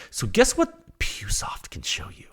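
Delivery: slow conspiratorial whisper; teasing whisper. Acted. Host teasing viewers with a spoiler in a slow whisper. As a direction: let them in on a secret, slowly whispered.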